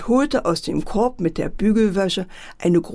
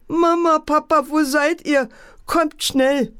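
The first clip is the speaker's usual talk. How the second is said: frightened wailing; 8 semitones higher than usual. Acted. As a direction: cry out for mum and dad, scared. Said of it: "begann fürchterlich zu heulen".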